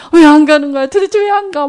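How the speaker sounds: loud, high desperate shout; desperate cry. Retold or imitated. Preacher reliving the night, crying out at the ghost. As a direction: yell at the ghost in panic. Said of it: "막 이러고 막 벌벌벌벌 떨고".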